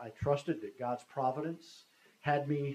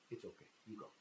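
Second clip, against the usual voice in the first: very soft, lowered release; quiet relenting; 4 semitones lower, 19 dB quieter, faster than usual. Retold or imitated. Accuser giving in to the plea, hushed. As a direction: let him go, barely voiced.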